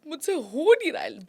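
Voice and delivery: fast mock whiny complaint; a lightly voiced frustrated man; boys complaining. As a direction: rush it out like a helpless guy who can't cry. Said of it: "they're like".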